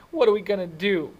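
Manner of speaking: high, loud, helpless cry; panicked despair. A narrator's reading. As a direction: plead desperately for an answer. Distraught friend pacing, both crying.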